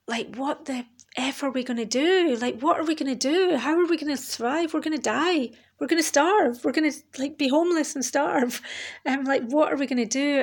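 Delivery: high-pitched, half-laughing retold panic; mock panic. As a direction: play up the worry, light and amused. Retelling panic with friends.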